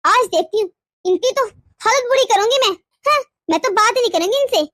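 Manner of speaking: loud, wounded indignation; indignant. Acted. Wife fuming that he called his mother first, indignant. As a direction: fume aloud to yourself.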